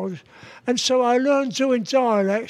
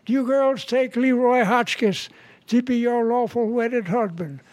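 wedding preacher; 3 semitones higher than usual. Acted. Preacher asking the brides their vows, lightly voiced and measured. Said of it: "And he said".

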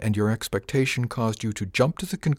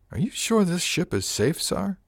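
put-on higher young woman's voice, wary; Miss Arione voiced; 11 semitones higher than usual. Crew mate asks captain if ship is safe, uneasy higher voice. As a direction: voice her doubtful and uneasy.

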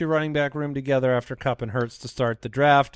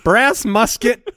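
grand announcer voice; 7 semitones higher, 5 dB louder, slower than usual. Pretend. Joking mispronunciation as grand name.

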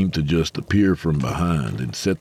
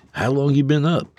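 rough man voice; 10 semitones higher than usual. A narrator's reading. Sutter asking Mose.

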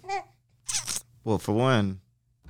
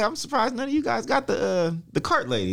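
badly faked Conor McGregor accent, pitched high; half-managed Conor McGregor accent, higher voice; attempted Conor McGregor accent; 10 semitones higher than usual. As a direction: imitate a golfer with a McGregor-style lilt. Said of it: "I can't do the accent".

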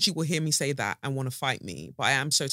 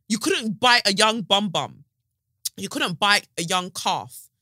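mock scolding; 5 semitones higher, 6 dB louder than usual. Scolding the mosquitoes.

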